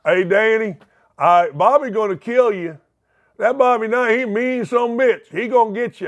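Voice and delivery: hammed-up southern Indiana local; Bloomington, Indiana accent. Bloomington local warning Danny about Bobby Knight, southern Indiana accent. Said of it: "it went down to Bloomington, Indiana".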